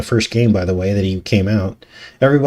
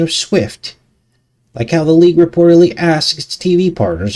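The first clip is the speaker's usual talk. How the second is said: reporter voice. Acted. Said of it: "reporter voice here".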